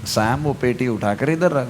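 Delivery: प्यार से, नरमी से; lovingly. Retold or imitated. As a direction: say it kindly, not as an order. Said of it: "मैंने प्यार से बोला".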